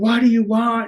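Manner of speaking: mock, high, fed-up, sick-of-it shout at the end. Recalling an anxiety episode, the speaker retells yelling out: retelling a yell. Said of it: "I think I even yelled like".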